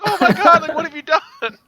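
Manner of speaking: high, loud mock gasp of dismay; mock shock. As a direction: cry out in hammed-up horror. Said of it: "everyone's like".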